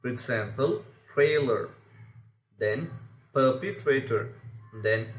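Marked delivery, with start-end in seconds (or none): 1.1-1.7 "trailer" with TRAI punched, the ending light; first-syllable stress. Shown as a demonstration. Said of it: "first syllable of such a word will be stressed". 3.3-4.3 "perpetrator" with PER leading, the rest lighter; first-syllable stress. Shown as a demonstration. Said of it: "first syllable of such a word will be stressed".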